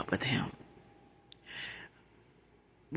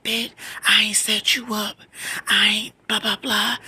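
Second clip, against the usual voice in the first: loud, raised-pitch mock retort; angry denial; 6 semitones higher, 5 dB louder than usual. Cousin denying the setup over the phone, angrily acted. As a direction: imitate the cousin snapping back.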